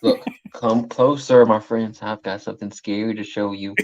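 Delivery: slow, lightly spooky invitation; mildly creepy horror-host voice, slow; spooky host line. Pretend. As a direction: beckon them in like a creepy host. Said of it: "take it a step further".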